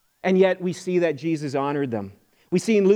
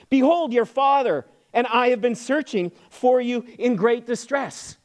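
higher, mildly exasperated reading; a little ticked; 6 semitones higher than usual. Retold or imitated. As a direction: reproach the son, slowing on the last words. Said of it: "They were a little ticked".

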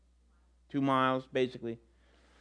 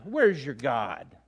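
mocking taunt. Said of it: "he's got people mocking him".

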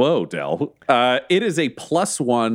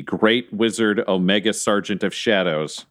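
dramatic announcer voice; 5 semitones lower than usual. Acted. GM announces grand title.

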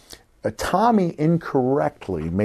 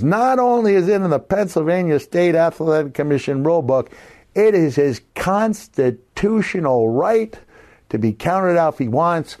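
officious ruling; 6 semitones higher than usual. Retold or imitated. Bill citing the rule book, a pompous official tone. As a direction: lay down the law like a self-important official. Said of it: "And he says".

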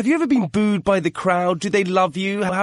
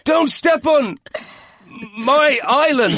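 shrill gloating wrestling manager; 10 semitones higher than usual. Pretend. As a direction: boast over your turf like a heel manager. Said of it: "And what would you say to them?".

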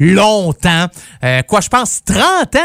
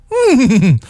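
horse whinny; 4 semitones higher than usual. Shown as a demonstration. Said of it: "très bien imiter le cheval".

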